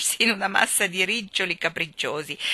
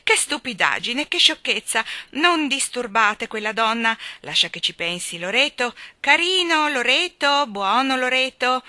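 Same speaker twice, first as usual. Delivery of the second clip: loud, high scolding parrot voice; clucking parrot; 5 semitones higher, 7 dB louder than usual. A narrator's reading. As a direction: squawk like a self-admiring parrot. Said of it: "disse forte una voce chioccia". (pappagallo chioccio, forte e acuto)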